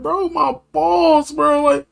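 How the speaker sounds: high, strained pleading voice; panicked whine. Retold or imitated. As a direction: whine it out, hurting and desperate. Panicked self in pain quoted.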